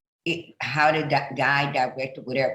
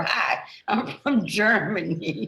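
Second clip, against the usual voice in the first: mock German caller; 5 semitones higher, slower than usual. Teasing him about the German caller.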